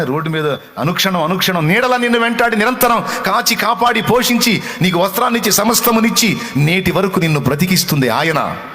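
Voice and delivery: high, loud, rolling sermon climb; preaching at full force. Acted. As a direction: pour it out to the congregation like a revival preacher. (ఉద్వేగంగా బిగ్గరగా ప్రసంగం)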